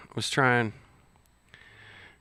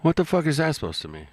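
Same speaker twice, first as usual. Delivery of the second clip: incredulous outburst; 6 semitones higher, faster than usual. Real, not acted. Reacting in disbelief to clip.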